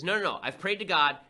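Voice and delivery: a lightly acted stubborn no; stubborn refusal. The religious guy turning down the boat, mock refusal. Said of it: "And the religious guy says".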